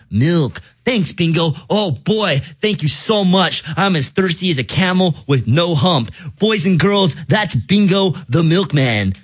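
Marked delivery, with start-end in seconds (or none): 6.4-9.1 put-on kids party host. Addresses kids audience.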